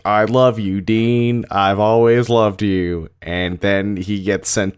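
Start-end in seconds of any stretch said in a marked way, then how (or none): 0.0-3.1 mock love confession. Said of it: "He was like".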